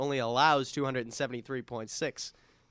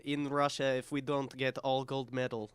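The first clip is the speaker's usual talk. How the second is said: light mock Russian accent, deadpan; a hint of a Russian strongman boast. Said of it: "That's a really good Russian accent".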